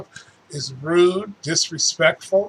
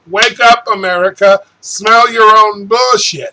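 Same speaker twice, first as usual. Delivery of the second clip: loud appeal; 3 semitones higher, 6 dB louder than usual. Real, not acted. Ranting appeal to the nation.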